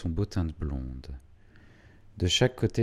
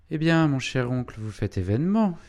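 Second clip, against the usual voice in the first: lightly acted loud hail to an uncle; raised, higher voice calling to a relative; hearty greeting; 6 semitones higher, 5 dB louder than usual. A narrator's reading. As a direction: make a bit of a show of greeting him. Postmaster hailing his uncle in story.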